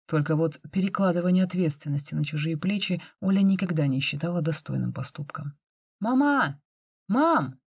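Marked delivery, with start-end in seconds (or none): 6.0-7.6 higher call to mum from the doorway. A narrator's reading. Sonya calls her mother from the front door, calling out. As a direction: call mum from the hall, eager. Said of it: "позвала Соня".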